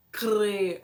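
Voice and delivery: "Crer" loud, with a tapped first R; tongue-flipped R. Shown as a demonstration. Teacher showing the R sound, loud "Crer" with tapped R. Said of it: "Dobra a língua".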